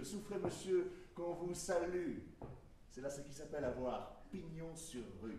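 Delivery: respectful. Acted.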